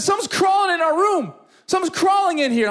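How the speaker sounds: put-on high, panicked little-boy cry; imitated scared child. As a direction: imitate a frightened son calling for help. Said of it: "he starts screaming".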